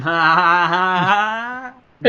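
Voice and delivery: loud, spelled-out fake laugh; hammed-up sarcastic laughter; loud mocking ha ha. Mocking a bad joke.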